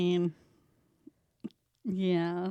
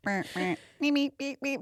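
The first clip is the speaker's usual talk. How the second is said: robot beeps; 5 semitones higher, 5 dB quieter than usual. Shown as a demonstration. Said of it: "What does a robot sound like?".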